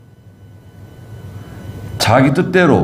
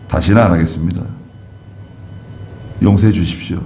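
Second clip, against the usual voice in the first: lower, subdued mock confession; contrite plea; 3 semitones lower than usual. Believer confesses disobedience to God and begs forgiveness, contrite. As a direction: beg forgiveness humbly, voice dropped. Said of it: "내가 어떻게 반응을 해야 되죠?".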